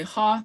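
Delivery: "ha" said short, vowel not held; not drawn out. Shown as a demonstration. Teacher showing incorrect way, short vowel. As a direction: keep "ha" brief. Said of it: "you're not saying it correctly".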